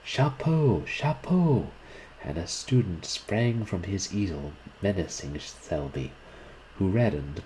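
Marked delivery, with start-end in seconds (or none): 0.0-1.7 high, raised-voice cry of outrage; indignant shout from the crowd; furious cry. A narrator's reading. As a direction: call it out angrily, pitched up high. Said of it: "there was a furious cry of".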